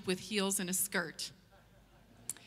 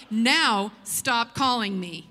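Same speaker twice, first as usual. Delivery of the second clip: firm punchline; 7 dB louder, slower than usual. Retold or imitated. Reading the letter's punchline.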